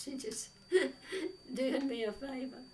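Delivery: breaks into a high laugh mid-line. Real, not acted. Telling schoolmates about her landlady, laughing. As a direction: giggle through the words.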